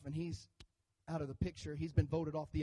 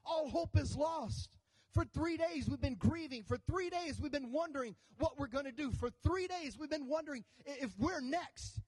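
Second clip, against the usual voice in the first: grieving Thomas; 7 semitones higher than usual. Retold or imitated. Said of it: "And Thomas says".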